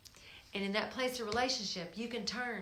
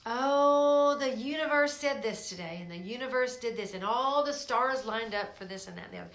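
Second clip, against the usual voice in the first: mock universe believer; 2 semitones higher, 6 dB louder than usual.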